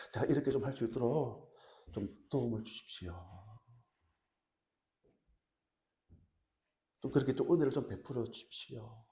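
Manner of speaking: humble, restrained request; polite pleading. Acted. Preacher voices Daniel courteously asking the chief official, politely. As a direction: ask a favor with deference. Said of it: "공손한 태도로 그렇게".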